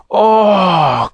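put-on children's rolling groan; drawn-out oh of discomfort. A narrator's reading. Children tossed by the land, groaning. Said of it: "groaned the children".

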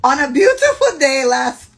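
high, loud, grand storybook opening; theatrical story opening. Acted. Host opening friend's dating story, theatrically. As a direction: launch the tale with overdone flourish. Starts reading the story, breaks off.

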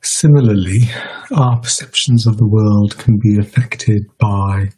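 measured meditation guidance with long pauses; guided meditation. Real, not acted. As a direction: guide listeners unhurriedly, leaving space between phrases.

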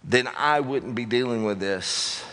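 slow, drawn-out blame; slow blaming whine. Pretend. Preacher voicing people blaming others, slow and sulky. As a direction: drag out the excuses. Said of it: "we love to pass it on".

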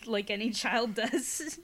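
spooky storyteller reading aloud; story narration. A narrator's reading. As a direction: tell it like a campfire ghost story. Reads scary story aloud.

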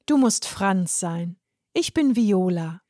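slow, friendly greeting. Acted. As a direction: greet him kindly and unhurried. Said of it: "entgegnete die Frau freundlich". (Viola begrüßt Franz langsam und freundlich)

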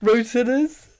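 Rotanas in a high, laughing mock Welsh lilt; badly faked Welsh accent, giggling; Welsh accent attempt. Shown as a demonstration. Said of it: "Put a little Welsh twang on it".

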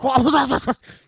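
loud, high wordless outburst; mock outraged yell. Imitating the insulted once they get it, loud outburst. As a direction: explode in exaggerated outrage.

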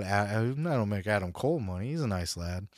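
lightly mimicked Cockney accent; imitated Cockney. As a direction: quote him with a touch of Cockney. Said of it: "Cockney accent".

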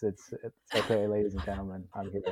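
mock celebrity modesty, hushing the crowd; milking the applause. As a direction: play the star calming adoring fans. Guest mocks applause as celebrity.

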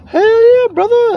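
high, slow, hyped-up bro cheer; stoked bro voice. Retold or imitated. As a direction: crank it up like a stoked dude. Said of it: "And they're like".

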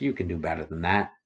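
a soft inner voice urging you on. Retold or imitated. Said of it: "always in a soft voice".

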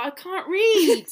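high, loud wail of defeat; mock despair. Actor fails to read the line, mock despairing wail.

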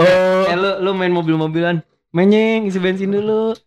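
put-on high, coaxing baby talk; playful baby talk. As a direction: coax it like feeding a toddler. Mimicking mom feeding child.

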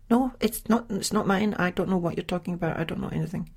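high, fast flustered denial; mock denial. Lodger on the phone insisting the underwear isn't hers, high and fast. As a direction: deny it all in a quick, high rush. Lodger denies again, quoted.

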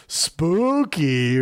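long, stretched spooky word; mock spooky. Host announcing the Halloween theme, mock spooky. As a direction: draw it out like a campy ghost.

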